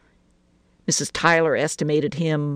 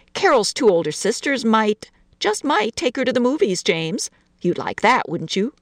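put-on higher, coaxing lilt to a small child; bright; 6 semitones higher than usual. A narrator's reading. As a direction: brightly tempt a little boy with a treat. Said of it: "said to him brightly".

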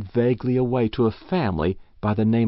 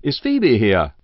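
eager demand; 3 semitones higher, 5 dB louder than usual. Acted. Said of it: "he demanded eagerly".

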